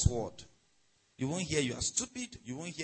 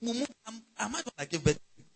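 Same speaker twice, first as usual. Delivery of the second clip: mock scolding parent; 5 semitones higher, faster than usual. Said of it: "Don't go say".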